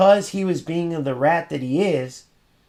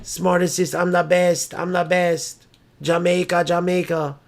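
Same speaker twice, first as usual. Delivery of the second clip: mock trash talk; 2 semitones higher, slower than usual. Parodying a trash-talking opponent, taunting chant. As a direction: taunt like a cocky gamer. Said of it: "you wouldn't get on there and go".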